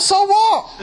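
high, laughing so-what; dismissive retort. Retold or imitated. Speaker retorting to hotel staff, scoffing and high.

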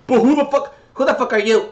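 high loud outraged; indignant shout. Acted. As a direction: snap back offended. Imagined rapper retort.

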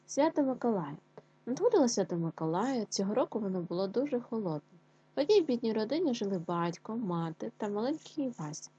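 lively storytelling voice; story narration. A narrator's reading. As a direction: tell the tale to children. Teacher reads story aloud.

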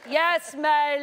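copying a Scottish lilt, laughing; Scottish accent. Pretend. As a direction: echo the boy's Scottish accent. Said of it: "Just trying to copy".

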